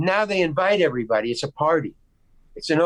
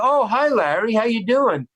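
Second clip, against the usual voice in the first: bright, higher friendly hello; friendly greeting; 6 semitones higher than usual. Retold or imitated. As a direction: greet him like nothing is wrong. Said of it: "So they're friendly".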